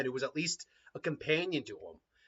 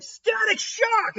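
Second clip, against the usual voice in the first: jutsu call; 6 dB louder, much slower than usual. Acted. Made-up jutsu called out.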